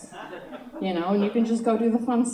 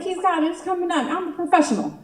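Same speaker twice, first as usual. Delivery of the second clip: high-pitched, escalating protest; hammed-up outraged professional, getting loud; mock indignation; 7 semitones higher, 7 dB louder, faster than usual. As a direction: argue back as if a child were a rival, building louder. Mock indignant defence to mom.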